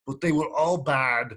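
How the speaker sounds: lightly attempted Austrian action-hero accent; a rough, half-hearted Austrian impersonation; Arnold Schwarzenegger. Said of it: "like Arnold Schwarzenegger says in True Lies".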